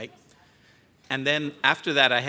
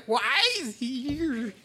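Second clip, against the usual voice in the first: slow, higher, laughing through tears; teary laughing quote; 11 semitones higher, slower than usual. Retold or imitated. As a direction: laugh it out while choked up. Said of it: "those of you who don't know me are thinking".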